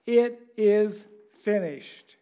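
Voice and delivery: slow, weighty quote; solemn pronouncement. Acted. Preacher voicing Jesus' last words on the cross, slow and solemn. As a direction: spread the words out with solemn finality.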